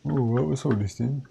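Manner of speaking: mock British accent with a swooping tune. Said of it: "I'll stop doing the British accent".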